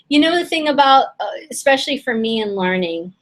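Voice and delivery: strained, losing her voice; hoarse voice. Real, not acted. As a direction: voice giving out, a little rough. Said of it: "I feel like I'm losing my voice here".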